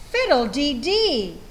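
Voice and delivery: Missus Wishy-Washy exclaiming, slowing at the end; a farm lady crying out at her muddy cow; cried out. Acted. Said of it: "Missus Wishy-Washy cried".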